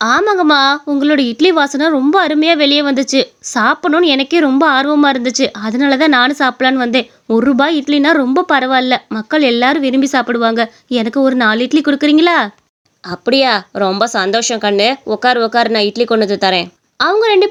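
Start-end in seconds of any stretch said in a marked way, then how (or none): 0.1-12.4 lightly voiced, keen and polite; eager new customer. New customer asking the idli seller for food, eager. 13.0-16.7 lightly voiced motherly welcome; kindly idli seller. Idli seller seating a new customer, kindly.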